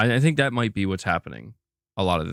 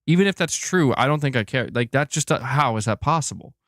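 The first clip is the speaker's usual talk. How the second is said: higher, fed-up protest; exasperated disbelief; 5 semitones higher than usual. Real, not acted. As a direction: refuse to accept it, real exasperation. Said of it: "I'm so tired of all this nonsense".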